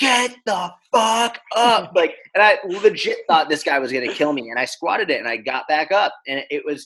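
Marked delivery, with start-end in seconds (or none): 0.0-1.9 very high, slow, drawn-out scream. Retelling how a massive tattooed man yelled at you during your squat, imitating his extremely loud scream. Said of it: "he screams the loudest I've ever heard".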